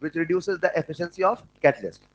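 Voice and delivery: dictating slowly, word by word; very slow dictation pace. Shown as a demonstration. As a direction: read it out slowly so they can write. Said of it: "ऐसा लिख लो".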